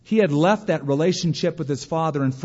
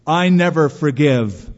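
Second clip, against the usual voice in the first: slow, louder boast; proud declaration; 7 dB louder, slower than usual. Retold or imitated. Oglethorpe telling Wesley he never forgives, proud and slow. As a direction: say it stiffly as a point of pride. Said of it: "said very proudly".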